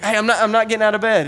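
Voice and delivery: mild mock yell from bed; yelling back. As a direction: call back irritably through the door. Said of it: "he's, like, yelling back through the door".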